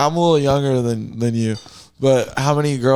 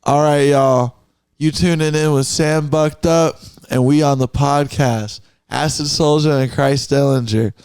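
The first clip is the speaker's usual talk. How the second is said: podcast intro announcer. Pretend. Making up a podcast intro on the spot, hyped announcer voice. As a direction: welcome the audience like a host kicking off the show. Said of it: "I'm gonna make you a podcast intro".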